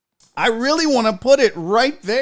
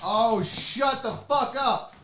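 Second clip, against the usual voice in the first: slow, softer amazed reaction; hushed disbelief; 7 dB quieter, slower than usual. Real, not acted. Unboxer first seeing a gift, hushed disbelief. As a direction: draw it out softly in disbelief.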